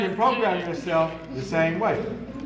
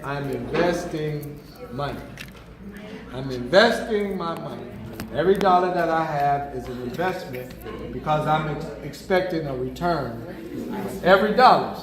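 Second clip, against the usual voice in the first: calm affirmation; 6 semitones lower, 5 dB quieter than usual. Shown as a demonstration. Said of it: "to start saying".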